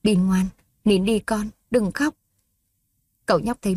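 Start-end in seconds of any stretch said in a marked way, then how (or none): 0.0-2.1 slow, gentle hushing; calm a crying little boy; soothing her child. Acted. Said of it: "vội lau nước mắt dỗ con".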